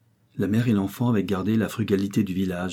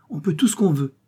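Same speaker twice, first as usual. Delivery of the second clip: whisper; 9 semitones higher, 4 dB louder than usual. Acted. Boy adds his maxim.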